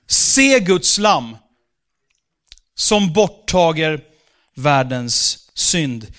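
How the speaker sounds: slow, loud, weighty proclamation; solemn scripture reading. Acted. Preacher reading John the Baptist's words to the church, solemn. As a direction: proclaim it slowly like holy writ.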